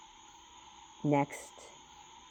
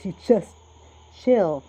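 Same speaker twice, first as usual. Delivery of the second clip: much higher, loud, amused; laughing delight; 6 semitones higher, 13 dB louder, slower than usual. Real, not acted. Reading a hopeful card aloud, laughing loudly. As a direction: burst out with glee.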